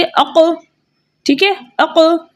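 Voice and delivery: अक joined fast and let go at once; quick release demo. Shown as a demonstration. Teacher modeling the quick release for students. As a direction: snap अक off quickly. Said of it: "जल्दी से".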